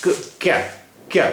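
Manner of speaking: bare k, then क्या as one syllable; joined k-ya. Shown as a demonstration. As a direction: run the vowelless k straight into ya in क्या. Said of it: "यहाँ के का pronunciation होगा".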